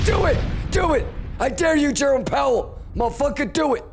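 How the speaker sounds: high, loud taunting shout; loud dare. Real, not acted. Trader shouting a dare at Jerome Powell, loud and high. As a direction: dare him at full voice.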